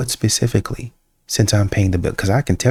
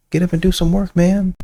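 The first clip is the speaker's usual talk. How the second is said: exasperated call; 8 semitones higher than usual. Real, not acted. Exasperated command.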